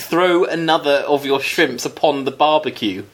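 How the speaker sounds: slow, deliberately put-on Australian; Australian accent. Host defying a listener's request, mock Australian accent. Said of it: "put on an Australian accent".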